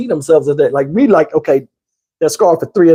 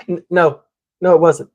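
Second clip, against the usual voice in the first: imitating her answer. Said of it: "She would answer just like this".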